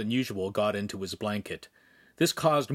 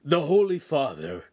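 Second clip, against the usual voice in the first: grief-stricken; 3 semitones higher, 4 dB louder than usual. A narrator's reading. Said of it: "he couldn't continue".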